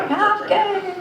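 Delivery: höher, lachend ungläubig: "Half gay?"; laughing disbelief. Retold or imitated. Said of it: "I was like".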